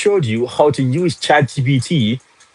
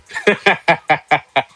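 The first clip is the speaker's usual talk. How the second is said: real high burst of laughter; laughing; 5 semitones higher than usual. Real, not acted. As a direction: let out a helpless run of laughs. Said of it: "You made me laugh today".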